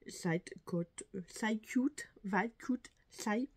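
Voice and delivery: stumbling over an English shade name; fumbled English product name, French-accented; tongue-tied English attempts. Real, not acted. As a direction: trip over "Side Cute", restarting it with shifting vowels. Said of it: "j'arrive à parler".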